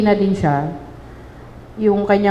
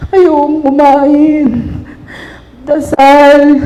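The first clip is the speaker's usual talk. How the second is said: on the verge of tears; 4 semitones higher, 6 dB louder than usual. Real, not acted. Recalling son's death, voice breaking.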